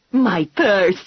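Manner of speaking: sharp cry of alarm over a stolen purse; old woman shrieking about her purse; shrieked. A narrator's reading. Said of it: "the woman shrieked".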